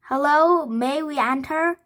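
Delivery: loud, high call. A narrator's reading. Teddy calling out at the castle's double doors. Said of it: "he called".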